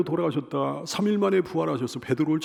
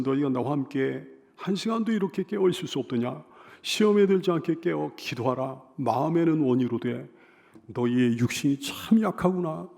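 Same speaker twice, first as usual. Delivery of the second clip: calm, unangered reproof; 4 semitones lower than usual. Acted. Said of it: "주님은 화내지 않으셨습니다".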